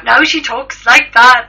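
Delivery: loud, slow, hammed-up Jamaican accent; Jamaican accent impression. Co-host imitating the stroke woman's new voice, mock Jamaican accent. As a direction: drag it out in a put-on Jamaican accent. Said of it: "how does she sound now".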